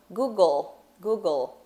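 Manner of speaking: "Google" ending on a small clear L; final L pronounced. Shown as a demonstration. Teacher drilling the word, little L at the end. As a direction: finish "Google" with tongue up for L. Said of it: "Olha o Lzinho no final".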